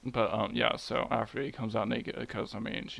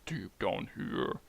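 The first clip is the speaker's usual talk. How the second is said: slow, slightly lowered voice; deep down voice; 3 semitones lower, 3 dB quieter, slower than usual. Shown as a demonstration. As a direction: sink slowly down into your low register. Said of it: "considering my voice is, like, deep down here".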